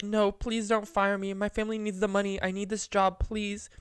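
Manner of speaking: high-pitched fake begging; mock-sad pleading. Fake-fired coffee worker begs coworker for the job, mock sad. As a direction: plead with hammed-up desperation for your job. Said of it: "I started acting real sad".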